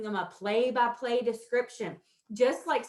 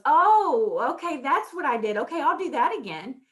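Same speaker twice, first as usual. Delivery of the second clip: a light, high "oh" of discovery; lightly voiced child noticing her success; pleased realization; 4 semitones higher, 5 dB louder than usual. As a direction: play a child who just got it. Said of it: "so that Erica goes".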